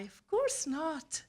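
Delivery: a put-on cheerful lie, drawn out; feigned cheer. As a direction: fake that you're not tired at all. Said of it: "fake a smile and lie".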